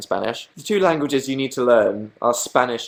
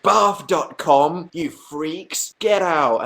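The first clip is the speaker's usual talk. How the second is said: put-on childish disgust; 4 semitones higher, much slower than usual. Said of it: "I'd have a sip and I'd be like".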